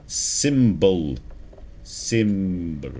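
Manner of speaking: "Symbol" drawn out, each syllable carefully formed; careful enunciation. Real, not acted. Player retrying a fumbled word, careful drawn-out "Symbol". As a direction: coax the mouth through "Symbol", slowly and deliberately. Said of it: "come on, mouth, you can do this".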